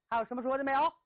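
bandit's sneering question, rising on 有; gloat, ask his last words with a rising 有; mocking bandit. Bandit taunts the captive scholar for last words, sneering rise on 有.

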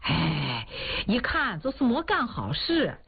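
old man ribbing his friend in front of everyone, mock gossip; teasing jab. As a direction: needle him with a grin in the voice. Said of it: "看哭老头儿就又调侃说".

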